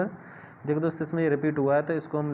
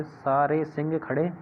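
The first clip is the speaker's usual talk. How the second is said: slowed mnemonic; slower than usual. Shown as a demonstration. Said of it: "चार याद हो गए".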